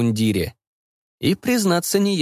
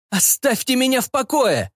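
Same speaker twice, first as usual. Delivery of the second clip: high panicked cries; panicked shouting; 13 semitones higher than usual. A narrator's reading. Cyborg begs students to let go, high panic. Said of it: "кричал слесарь".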